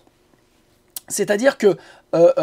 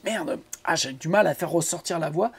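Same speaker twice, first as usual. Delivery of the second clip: aparté à soi-même; 3 semitones lower, 7 dB quieter than usual. Acted. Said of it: "je me dis".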